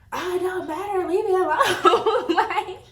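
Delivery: high, slow laughing brush-off; laughing dismissal. Retold or imitated. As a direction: laugh him off.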